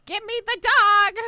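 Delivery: put-on high, loud, slow confused old lady; old mom voice. Imagining the host's senile mom, high loud demanding old woman. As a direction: shout it like a muddled elderly mother. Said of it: "You'd be like".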